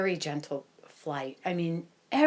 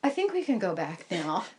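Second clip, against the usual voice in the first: calm voice; faster than usual. Retold or imitated. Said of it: "And I say in a calm voice".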